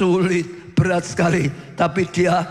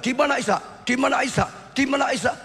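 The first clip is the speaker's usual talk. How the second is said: worried mother; 7 semitones higher, faster than usual. Retold or imitated. Sarah searching for her son.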